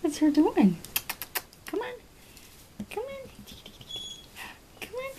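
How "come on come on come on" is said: high coaxing. Real, not acted. Coaxing pet, high soft.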